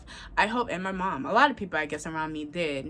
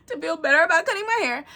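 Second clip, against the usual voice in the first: laughing; 11 semitones higher, 7 dB louder, faster than usual. Real, not acted. Laughing at her own excuse for the haircut. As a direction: repeat it through a high laugh.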